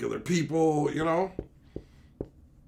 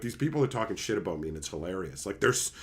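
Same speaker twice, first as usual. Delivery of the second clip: amused excited. Retold or imitated. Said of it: "What are you laughing about".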